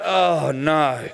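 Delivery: deflated mock letdown; demonstrated dismay. Shown as a demonstration. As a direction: groan it in mock disappointment. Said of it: "We're gonna be like".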